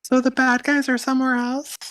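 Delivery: high, timid little voice; timid guard. Acted. Game master as timid guard asking after bad guys, meekly. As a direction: ask it meekly, pitched well up.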